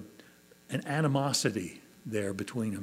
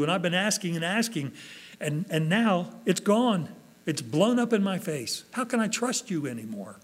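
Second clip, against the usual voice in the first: voiced hurt complaint, pitched up; bewildered protest; 4 semitones higher than usual. Believer whose prayers went unanswered questions God, hurt and bewildered. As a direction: plead with God in mild exasperation.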